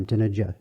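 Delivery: d, n, j with the same mouth shape; soft consonants. Shown as a demonstration. Teacher sounding out d, n, j for the class. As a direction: sound out d, n, j lightly at the front. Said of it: "the mouth shape is always the same".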